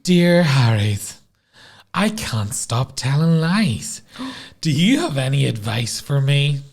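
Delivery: slow, put-on letter-reading voice; theatrical, drawn-out plea for advice; weird voice. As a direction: read it out slowly in a silly voice. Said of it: "I'll try and do a weird voice".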